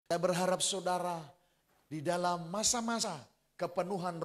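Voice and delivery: loud, rousing sermon voice; full-force preaching. Acted. Pastor rallying the congregation to be witnesses, loud preaching. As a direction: preach it loud to the whole church.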